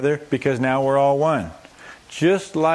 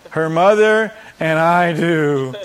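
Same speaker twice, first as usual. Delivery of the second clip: solemn father; 4 semitones higher, 5 dB louder, slower than usual. Acted. Father answering officiant.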